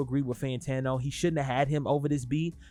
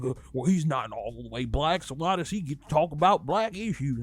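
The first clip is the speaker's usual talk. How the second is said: lightly put-on dumb country accent; a hint of a mocking country accent. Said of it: "like, a country accent".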